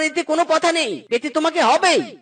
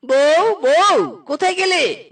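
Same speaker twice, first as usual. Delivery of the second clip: calling out; 3 semitones higher, 4 dB louder, slower than usual. Acted. Calling out to his wife.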